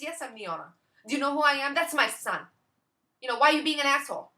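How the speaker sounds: high, loud and fast indignant owner; offended owner's voice. Retold or imitated. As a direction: rattle it off, high and affronted. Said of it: "one of those women who talk like this".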